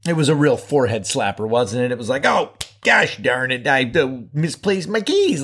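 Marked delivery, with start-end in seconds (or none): 2.2-5.4 lightly voiced goofy self-scolding; a hint of a silly fool who lost his keys; mild ding-a-ling. Host imitating his younger self losing keys, mildly goofy. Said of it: "like a real ding-a-ling there".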